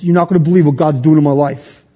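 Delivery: lightly imitated North Philly accent; cousin's Philly accent. Preacher quoting his cousin's phone call, light Philly accent. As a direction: put on a slight Philly street accent. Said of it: "his accent here because this is the way he would".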